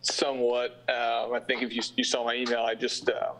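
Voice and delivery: speaking with a numb mouth; numb from the dentist. Real, not acted. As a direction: talk like your face is numb after dental work. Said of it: "but my face is completely numb".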